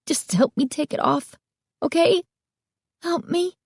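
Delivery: put-on high, pleading girl's voice; girl begging the store owner for help. A narrator's reading. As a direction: beg him to help, high.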